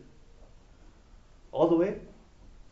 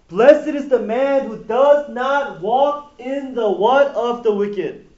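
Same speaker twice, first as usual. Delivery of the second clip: slow, raised reading voice inviting the men to fill in the word; drawn-out quote; 5 semitones higher, 6 dB louder, slower than usual. Shown as a demonstration. Pastor reading Psalm one to the men, slow and drawn out. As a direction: read it slow and loud with a questioning rise on what.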